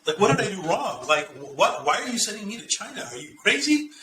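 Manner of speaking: half-hammed incredulous rising questions; retold disbelief. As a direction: replay your stunned protest to the boss. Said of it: "And I'm like".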